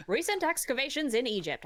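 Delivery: put-on old-time newsreel reporter, brisk; 1930s reporter voice. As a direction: announce it like a 1930s newsman. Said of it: "my nineteen thirties reporter voice".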